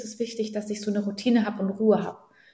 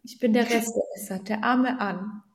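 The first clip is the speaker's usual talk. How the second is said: imitating Arne. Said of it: "Dann sagt der Arne mal".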